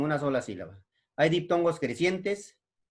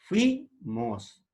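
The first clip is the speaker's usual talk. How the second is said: "Fuimos" as fui, pause, mos; higher joined ui in "Fuimos", then a break; syllable by syllable; 4 semitones higher than usual. Shown as a demonstration. Teacher showing ui in one syllable, "Fuimos" split in two. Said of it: "una sola sílaba".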